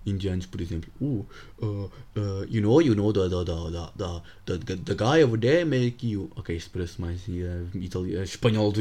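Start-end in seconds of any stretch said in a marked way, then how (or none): 1.0-6.3 fake Indian accent. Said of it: "sou horrível em sotaques".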